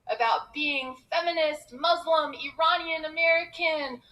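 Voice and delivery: high, loud list building to a shout; proud declaration. Real, not acted. Comedian declaring her identities to the audience, proud and building. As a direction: proclaim each label, climbing to a triumphant peak.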